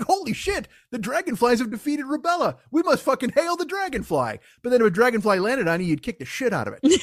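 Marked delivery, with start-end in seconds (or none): 0.0-4.4 much higher, grand proclamation; hammed-up reverence; mock awe. Person learning dragonflies beat rubella, in awe.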